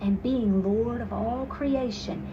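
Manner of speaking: a hint of a preaching vicar. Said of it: "with the voice of a vicar".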